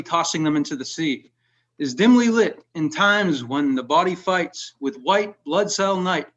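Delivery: measured, unhurried reading of a dark poem. Acted. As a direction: read it like a poet at a reading. Reads his poem Sickness aloud.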